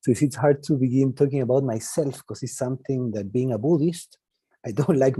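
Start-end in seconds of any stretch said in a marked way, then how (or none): 0.0-1.6 Spanish-accented English from Chile; Chilean accent. Real, not acted. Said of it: "I'm Chilean".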